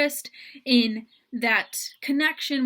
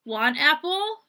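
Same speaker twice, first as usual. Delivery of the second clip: "want apple?" a bit higher, rising; simplified parentese; 4 semitones higher, 3 dB louder than usual. Shown as a demonstration. Parent offering a toddler an apple. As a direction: ask it like to a toddler. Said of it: "cut out the "you".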